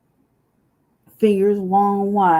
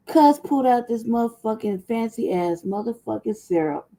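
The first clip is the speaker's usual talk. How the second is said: usual speaking voice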